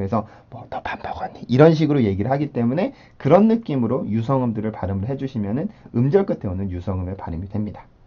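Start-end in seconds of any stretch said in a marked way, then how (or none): 0.5-1.4 voiceless, very quiet whisper. Pronunciation lesson comparing voiceless sounds to whispering: whispered without voicing. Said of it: "귓속말 할 때 우리가 성대 울림을 넣지 않고".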